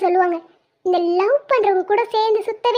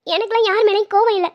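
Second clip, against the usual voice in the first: tearful denial, close to sobbing; crying. Acted. Upset wife denies being cross with husband, crying. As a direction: deny it through tears. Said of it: "உண்மையாவே அழுகுறியா?".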